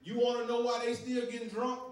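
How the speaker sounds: rising to a loud preached shout; preaching build. Real, not acted. Preacher challenging the congregation, building to a shout. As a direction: build it and hit the last line hard.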